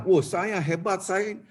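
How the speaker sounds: slow, drawn-out smug boast; a proud man admiring himself; mock boasting. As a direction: savour the self-praise, slowly. Mock boastful self-praise.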